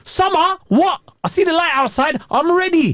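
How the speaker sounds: mock eager, ready to go out; excited summer self. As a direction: perk right up at the thought of summer. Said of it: "There's a".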